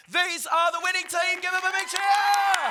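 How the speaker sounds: high, loud cheer for the winners; winner announcement. Real, not acted. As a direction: hype up the winning team.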